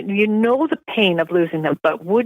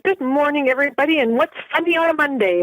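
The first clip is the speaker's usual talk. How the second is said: bright, upbeat hello to the room, pitched up; cheery greeting; 6 semitones higher than usual. Retold or imitated. Rolling into the gym, greeting the laughing therapists cheerfully. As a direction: breeze in greeting everyone with mock cheer.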